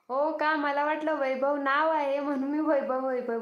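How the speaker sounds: oh really, I thought it was a name; surprised realization. Real, not acted.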